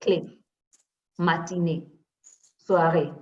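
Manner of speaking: clé, matinée, soirée ending in a closed "ay"; French é endings. Shown as a demonstration. Teacher modelling accent aigu for the class, clear é endings. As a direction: separate model words, each ending in "ay". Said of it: "That's how we say".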